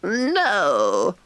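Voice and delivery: sullen but stout. A narrator's reading. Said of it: "a little sullenly but stoutly".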